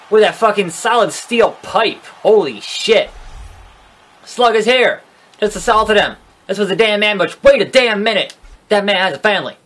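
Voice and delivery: high-pitched, hammed-up ringside outrage; outraged commentator. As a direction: call the attack in mock horror.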